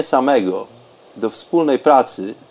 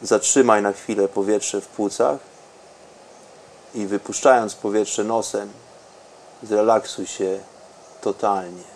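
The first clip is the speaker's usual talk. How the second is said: softer and softer meditation voice; guided meditation; 4 semitones lower, 13 dB quieter than usual. Acted. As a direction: let the voice sink into calm. Deep meditation, fading very soft.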